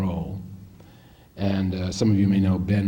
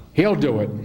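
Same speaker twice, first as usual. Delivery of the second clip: imitated firm verdict, pitched up; decisive retold verdict; 4 semitones higher, 4 dB louder than usual. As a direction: close the argument, quoting the boss. Ford repeats verdict after scolding Ben.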